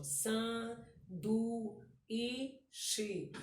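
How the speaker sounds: sanduíche split into San, du, i, chi with pauses; teacher sounding out San, du, i, chi; syllable by syllable. Shown as a demonstration. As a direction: spell out San-du-i-chi slowly, beat by beat. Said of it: "O u separa do i".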